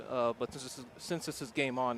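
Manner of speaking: talking around fake fangs; words slurred by plastic fangs; wearing vampire fangs. Real, not acted. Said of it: "it's hard to talk with these fangs".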